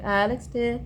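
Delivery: retold affectionate call. Friend recalling her daily greeting to him, affectionate call. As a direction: call out lovingly, lifting the voice. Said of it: "I called out to him like that".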